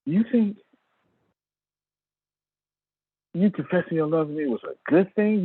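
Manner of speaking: quoting her anger. Retold or imitated. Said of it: "She said".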